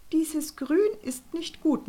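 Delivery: loud, high, slow nagging; grumbling. Acted. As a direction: nag about the colour. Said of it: "nörgelte Frau Kloß". (laut, hoch und langsam nörgelnd)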